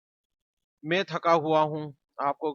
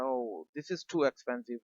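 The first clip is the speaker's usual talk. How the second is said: mild mock surprise; 3 dB quieter, much slower than usual. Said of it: "आपका मुंह से निकलता है".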